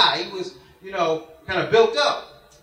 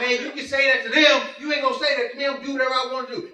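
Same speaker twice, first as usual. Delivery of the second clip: higher-pitched, indignant backtalk; defiant comeback; 3 semitones higher, much faster than usual. Retold or imitated. Player answers Big J's warning about fouls, defiant comeback. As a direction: act out refusing to back down. Retold defiant quarrel on the court.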